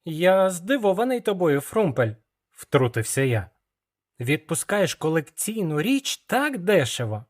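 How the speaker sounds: put-on boy poking fun at the dealer; young apprentice. Young hero teases Frumpel.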